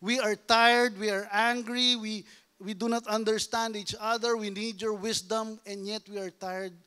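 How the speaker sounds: sample prayer. Shown as a demonstration. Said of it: "Ang prayer pag nag-aaway".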